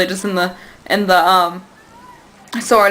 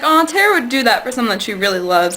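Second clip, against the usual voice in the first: gushing aww. Retold or imitated. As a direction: coo it like an adoring fan. Gushing fan reaction in retelling.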